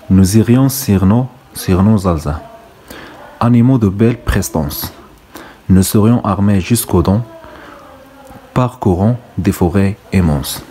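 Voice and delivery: slow, deliberate verse reading; poem recitation. Acted. Teacher reads out the verse on horses, slow recitation. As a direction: recite it line by line, drawing out the words.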